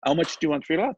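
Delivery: light imitation of a cute Haitian French accent; a touch of Haitian accent, gentle and polite. Landlord imitating a Haitian buyer asking the price, lightly Haitian. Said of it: "cutest little Haitian French accent".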